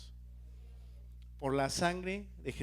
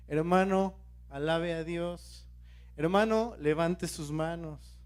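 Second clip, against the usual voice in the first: mock exhorting; slower than usual. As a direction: coax a reluctant worshipper, stretching the command. Acts out prodding reluctant worshippers.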